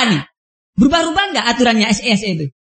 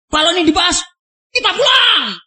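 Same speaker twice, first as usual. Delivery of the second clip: shouted threat rising high on pulang; angry threat; 5 semitones higher than usual. Retold or imitated. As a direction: bark it like an angry cleric threatening to walk out. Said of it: "Keras loh ya".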